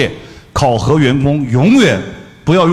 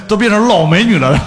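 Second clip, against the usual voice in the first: high and loud, laughing through the words; mock indignation dissolving into laughter; laughing complaint; 8 semitones higher, 4 dB louder than usual. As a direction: crack up at your own joke.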